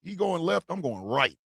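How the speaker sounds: a hushed, wary aside to himself; nervous mutter. Retold or imitated. Host dodging a growling man on the street, hushed nervous mutter. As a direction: mutter it as you slip past a scary stranger. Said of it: "I tend to go".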